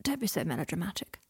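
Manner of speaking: soft unvoiced murmur. A narrator's reading. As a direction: wave it off under his breath. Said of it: "murmured Draco".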